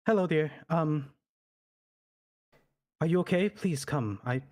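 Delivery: gently calling. Acted. Noble calling to a scared child, gently. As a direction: coax a scared child out kindly. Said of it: "you know, gently".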